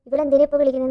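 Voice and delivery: bursting out irritated at the call; mock angry outburst. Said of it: "എന്നുള്ള രീതിയിൽ ദേഷ്യപ്പെട്ടിട്ട്". (ഉച്ചത്തിൽ ദേഷ്യപ്പെട്ട്)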